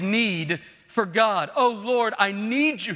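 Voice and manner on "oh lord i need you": a mild imploring cry. Retold or imitated. Preacher voices David's prayer to God, crying out. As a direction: plead it, drawing out "need". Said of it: "he keeps crying out".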